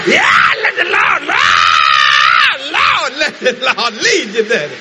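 slow, laughing retelling of her words; a hammed-up quote through laughter; laughing mock repeat. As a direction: repeat her advice while cracking up. Mocking repeat of daughter's words.

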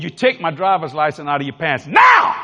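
stern order bursting into a shout on NOW; screaming. Acted. Driver demanding his license from the officer, screaming. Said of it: "I'm screaming at this man".

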